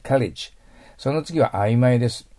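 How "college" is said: college with a clear L; L sound. Shown as a demonstration. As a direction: put the tongue tip up for college. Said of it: "上に当ててください".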